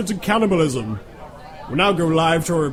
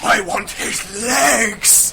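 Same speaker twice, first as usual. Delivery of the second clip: hungry cannibal; 7 semitones higher, much slower than usual. Acted.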